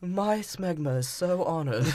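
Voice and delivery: slow, put-on voice through laughter; laughing mock quote. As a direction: drawl it out while laughing. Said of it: "He's like".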